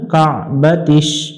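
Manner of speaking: slow কাবাতিস; careful কাবাতিস; correct Arabic. Shown as a demonstration. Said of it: "কা পড়া যাবে না".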